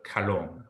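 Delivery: kalom starting in the throat, between C and H; guttural k. Shown as a demonstration. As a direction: model kalom with its throaty first sound. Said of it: "like a C sound with an H sound almost".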